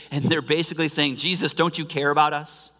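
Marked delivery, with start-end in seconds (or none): 1.2-2.7 raised, hurried pleading; like panicked men shaking someone awake; frantic disciples. Acted. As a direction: disciples in the boat, frantic and accusing. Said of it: "in their own sarcastic way".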